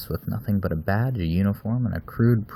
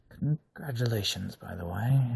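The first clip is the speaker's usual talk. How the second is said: distracted; 4 semitones higher, 5 dB quieter than usual. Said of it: "sounding distracted".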